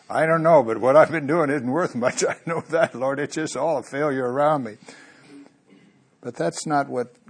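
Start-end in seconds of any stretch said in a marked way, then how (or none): 0.1-4.8 Elijah's despair. Acted. Elijah answers the Lord.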